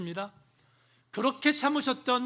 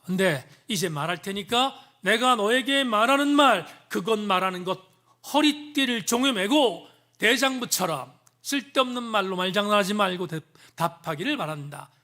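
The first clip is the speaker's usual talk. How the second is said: voicing God; 4 dB louder than usual. Preacher voicing God's challenge.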